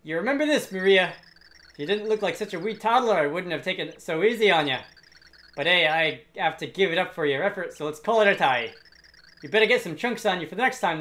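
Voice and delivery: jolly, loud Scottish thug taking his leave; booming Scottish brute, friendly farewell; Scottish accent. Acted. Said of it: "of a Scottish accent".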